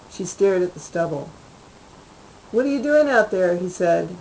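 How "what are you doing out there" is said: called out loud, much higher, to the next room; calling out. Acted. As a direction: shout through the wall. Husband calls from another room.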